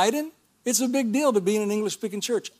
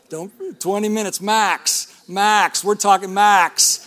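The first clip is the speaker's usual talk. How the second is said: light imitation, loud and drawn out on "max"; Frank; 6 dB louder, slower than usual. Preacher jokingly quotes Frank's time limit to church, mock-emphatic. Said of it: "Frank will tell you".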